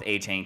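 Achane in the preferred AY-chain form, long A twice. Real, not acted. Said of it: "'cause I prefer it".

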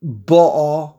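ba'a with the weight on BA; stress on first syllable. Shown as a demonstration. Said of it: "if you put the word on".

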